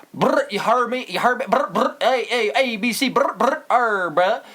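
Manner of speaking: Island Boy impression. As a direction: rattle off brr and letters like a clueless rapper. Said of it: "And he goes".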